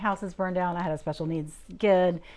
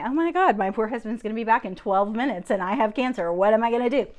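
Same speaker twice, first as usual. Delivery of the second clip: raised, louder mock fretting; retold panic; 3 semitones higher, 5 dB louder than usual. Wife thinking of her husband's return, mildly panicked. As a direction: replay a flustered inner panic.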